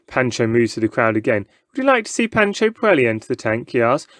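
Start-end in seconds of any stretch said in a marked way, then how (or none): 1.7-3.7 high, fast showman's pitch. Acted. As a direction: sell the danger to the crowd. Showman pitching his act.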